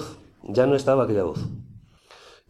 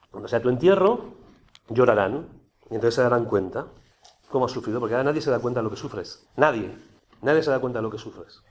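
pitying inner voice. Retold or imitated. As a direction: coax him gently, as if feeling sorry for him. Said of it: "Me acuerdo perfectamente".

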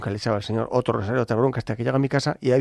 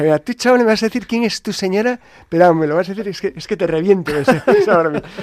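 loud, raised hammed-up bullying; retold threat; 6 semitones higher, 9 dB louder than usual. Priest demanding the lady's name, mock furious threat. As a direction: threaten him, breaking into a laugh. Threatening the stranger to reveal who.

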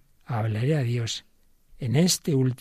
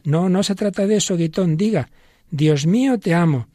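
put-on higher and louder, pressing the old man; insistent; 5 semitones higher, 5 dB louder than usual. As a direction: push him to say it, growing urgent. Pope insisting Guitton repeat prayer.

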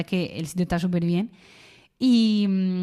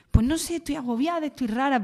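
put-on higher, softer voice of an upset girl; 6 semitones higher, 4 dB quieter than usual. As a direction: voice the girl, fragile and overwhelmed. Niña agobiada que empieza a llorar. (niña agobiada, voz más aguda y suave)

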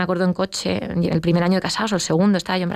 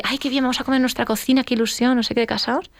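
higher, gushing newlywed voice; mock excited newlywed; 5 semitones higher than usual. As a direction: play the starry-eyed new bride. Imita su ilusión de recién casada. (recién casada ilusionada, voz más aguda)

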